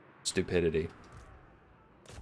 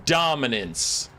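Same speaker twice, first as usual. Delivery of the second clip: slow drawn-out; much slower than usual. Shown as a demonstration. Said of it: "like chat told me to".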